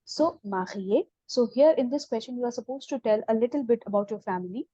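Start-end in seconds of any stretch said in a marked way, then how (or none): 0.4-1.1 "mariée" slowly, with a clear é at the end; slow pronunciation model. Shown as a demonstration. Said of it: "we will get accent on E".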